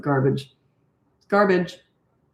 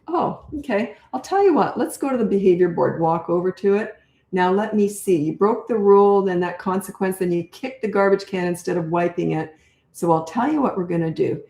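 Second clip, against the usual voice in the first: calm talk-through. Shown as a demonstration. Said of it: "See how I'm talking it through?".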